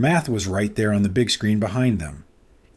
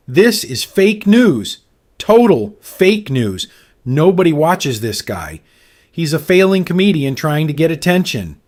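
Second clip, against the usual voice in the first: angry shouting; 5 semitones higher, 5 dB louder than usual. A narrator's reading. Trump attacking Stewart.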